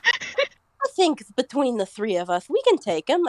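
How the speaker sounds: put-on slow, lilting Boston accent; tough-guy Boston accent. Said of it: "I'm going into a Boston accent for some reason".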